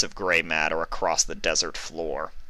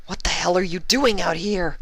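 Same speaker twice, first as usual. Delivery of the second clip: Vinyl voice; 13 semitones higher than usual. A narrator's reading. Vinyl finds Mully in desert.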